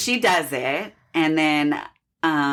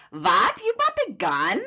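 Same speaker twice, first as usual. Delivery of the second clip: startled, rising mock Russian accent; bad Russian accent; 11 semitones higher than usual. Russian lady hears about protection, alarmed mock Russian accent. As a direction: climb high in a shocked Russian accent. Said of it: "I cannot do a good Russian accent".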